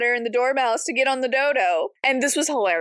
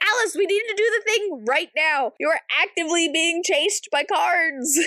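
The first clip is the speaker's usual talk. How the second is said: mock exasperation; 4 semitones higher than usual. Exasperated character voiced.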